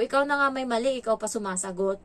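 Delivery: put-on firm telling-off of a child; mildly angry scolding. Helper repeats the scolding to the ward, mildly angry. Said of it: "Yung boses ko, iba na din, ah, medyo galit na".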